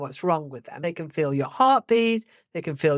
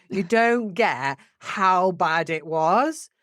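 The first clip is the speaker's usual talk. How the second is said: insistent; much slower than usual. Retold or imitated. Stressed friend insisting to Julie.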